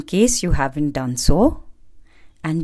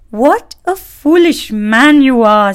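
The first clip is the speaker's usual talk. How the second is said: mocking bird; 8 semitones higher, 9 dB louder than usual. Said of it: "said the bird from high up".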